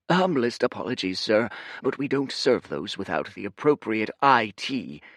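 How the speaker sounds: deferential restaurant server; polite server voice. Acted. Server speaks to guest.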